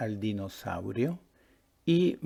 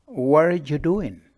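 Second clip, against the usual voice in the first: loud question; 5 semitones higher, 10 dB louder than usual. Acted. Boy asks girl in park.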